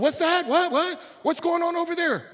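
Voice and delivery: high, put-on voice of a startled priest; priest's voice. Priest hearing a cry from the roadside, high startled voice. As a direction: play the nervous priest peering over. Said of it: "He said".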